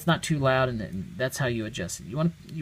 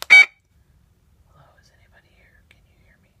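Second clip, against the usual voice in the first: whisper; 5 dB louder than usual. Shown as a demonstration. Investigator asking the recorder a question, whispering. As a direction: whisper as if calling to someone unseen. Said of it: "whispering voice".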